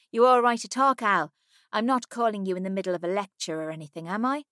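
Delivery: high, loud chatty friend; a lively friend calling from the US; Millie. Acted. Millie voiced in dialogue.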